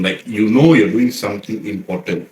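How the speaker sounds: slow, mildly serious; measured, earnest turn to the topic. Real, not acted. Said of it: "let's talk more serious tone".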